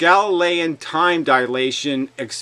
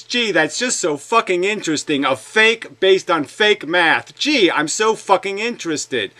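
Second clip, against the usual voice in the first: sarcastic. Real, not acted. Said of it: "No, I'm not".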